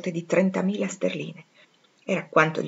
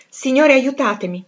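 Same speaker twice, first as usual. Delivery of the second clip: involuntary cry; 5 semitones higher, 5 dB louder than usual. Acted. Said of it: "mi sfuggirono involontariamente dalle labbra".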